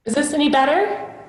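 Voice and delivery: echoey big room; cave echo. Real, not acted. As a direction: voice booming in a cave. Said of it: "it's like you're in a cave".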